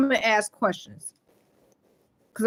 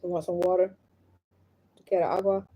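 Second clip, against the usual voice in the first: soft, low parent voice; gentle offer; 3 semitones lower, 4 dB quieter than usual. Real, not acted. Mother offering her child water, soft and gentle.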